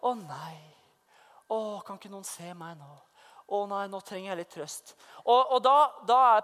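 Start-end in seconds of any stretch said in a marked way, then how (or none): 0.0-4.9 spilt stakkarslig klaging, lav og dempet; selvmedlidende. Acted. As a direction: syt mykt som om du ber om trøst. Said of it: "pity party er sånn". (ynkelig, selvmedlidende)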